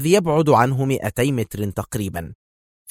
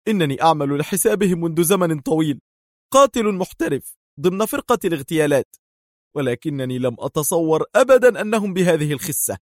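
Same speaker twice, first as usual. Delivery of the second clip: very tense; 6 semitones higher than usual. A narrator's reading. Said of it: "في توتر شديد".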